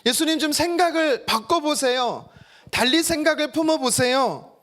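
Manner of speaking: acted persuasion, pitch lifted; persuading. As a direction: gently press them to think differently. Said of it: "설득하는 것처럼 보이십니까?".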